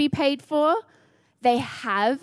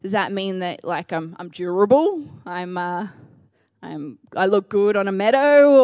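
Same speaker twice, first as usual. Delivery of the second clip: bemused self; 5 semitones lower than usual. Retold or imitated. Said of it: "I was like".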